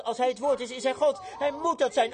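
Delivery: acted blind man working himself up; mounting desperate conviction. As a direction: pitch climbing toward a cry. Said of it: "Toen begon hij te schreeuwen".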